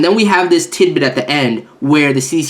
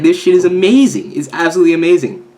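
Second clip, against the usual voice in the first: louder and higher, fast on the second line; excited outburst; 4 semitones higher, 4 dB louder than usual. Retold or imitated. Fan reading the new chapter, loud excited praise. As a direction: burst out with delight. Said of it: "I'm just like".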